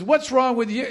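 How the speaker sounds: mildly indignant retold question; a little attitude. Preacher voicing the woman answering Jesus, a little attitude. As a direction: put a touch of sass on the challenge. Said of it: "she probably said it with a little bit of attitude".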